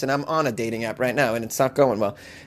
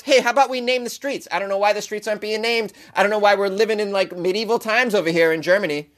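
mock villager's proposal; 5 semitones higher than usual. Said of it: "you propose".

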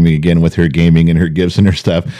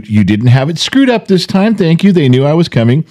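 sarcastic; 9 semitones higher than usual. Retold or imitated. Mock-thanking the company.

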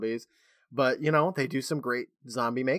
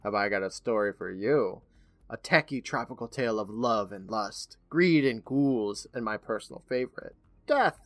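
Crypt Keeper voice; 2 semitones lower than usual. Retold or imitated. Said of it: "He notices our presence, saying".

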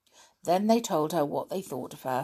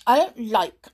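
sulky; 5 dB louder than usual. Acted. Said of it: "said Elizabeth sulkily".

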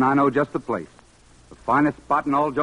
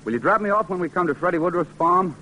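ordinary talk, nothing marked

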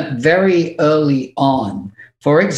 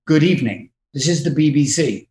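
BBC newsreader; 3 semitones lower, faster than usual. Acted. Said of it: "watching the news on T V".

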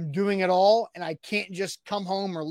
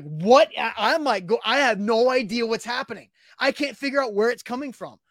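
loud, higher-pitched mock shock; retold bewilderment; 4 semitones higher, 4 dB louder than usual. Man retelling getting doused in water, bewildered. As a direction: replay being caught totally off guard.

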